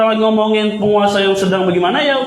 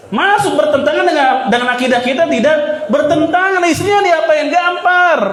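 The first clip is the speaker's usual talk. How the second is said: preacher's shout; 6 semitones higher than usual. Real, not acted. Preacher to congregation, forceful shout. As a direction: hammer the point home.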